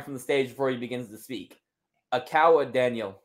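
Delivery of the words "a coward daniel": put-on weak try at an Australian accent; barely there Aussie twang on a sneer; Aussie accent attempt. The speaker answering Daniel Bryan, faint Aussie accent. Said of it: "I tried to do an Aussie accent".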